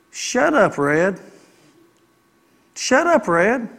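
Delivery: sharp rising shut up to oneself; telling yourself to hush; self-scolding shut up. Shown as a demonstration. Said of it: "See, I need to practice this".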